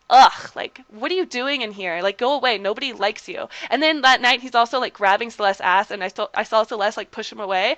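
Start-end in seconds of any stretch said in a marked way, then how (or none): 0.1-3.5 mock disgust. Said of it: "the way he said it was just so".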